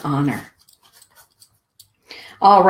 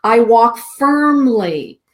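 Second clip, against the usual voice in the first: reading the mantra; 3 semitones higher than usual. Acted. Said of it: "The mantra says".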